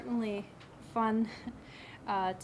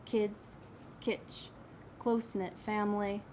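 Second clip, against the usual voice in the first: spaced-out phrases with pauses between items; measured poem recital; poetry reading. Acted. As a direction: read each image as its own line. Begins reading next poem.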